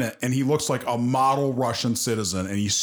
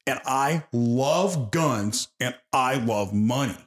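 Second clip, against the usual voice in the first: mock pondering; much slower than usual. Acts out the character's scheming thought.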